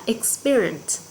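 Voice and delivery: "experience" with the beat on PE; stress on second syllable. Shown as a demonstration. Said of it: "Nó sẽ nhân ở âm tiết thứ hai".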